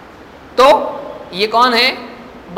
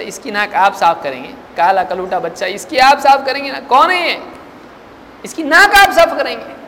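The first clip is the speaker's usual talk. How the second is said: incredulous questioning; 3 semitones higher than usual. Retold or imitated. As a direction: demand in disbelief whether he'll wipe it. (حیرت سے بلند، اونچے سوال)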